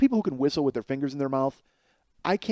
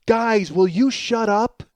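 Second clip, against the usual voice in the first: higher, louder, slow exasperated yell at noisy guys; exasperated shout; 6 semitones higher, 6 dB louder, much slower than usual. Retold or imitated. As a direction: yell at the talkers, fed up. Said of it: "And Karen goes".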